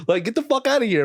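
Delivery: put-on a father laughing off his teenage son's request; mocking dad. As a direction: play the dad, laughing in disbelief. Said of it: "He's like".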